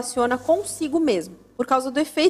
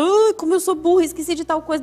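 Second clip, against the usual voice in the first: mock self-scolding; 5 semitones higher, 4 dB louder than usual.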